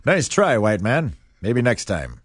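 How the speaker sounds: lightly voiced old-time announcer; hint of a 1950s radio man. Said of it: "That was my nineteen fifties voice".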